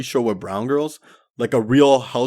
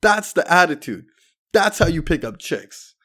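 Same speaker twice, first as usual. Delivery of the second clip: much higher, slow, delighted approval; hyped-up buddy, higher and drawn out; impressed buddy; 8 semitones higher, 4 dB louder than usual. Retold or imitated. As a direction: praise it like he finally gets it. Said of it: "my buddy was like".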